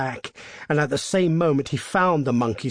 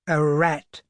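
put-on higher, uneasy old man; shaking tones; 4 semitones higher, 5 dB louder than usual. A narrator's reading. Old man answering his wife about the noise, shaking tones. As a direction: answer louder, with nervous shake. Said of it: "said the old man in shaking tones".

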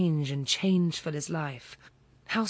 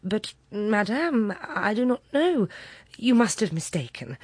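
stammering; 5 semitones higher, 3 dB louder than usual. Acted. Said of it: "and stammered".

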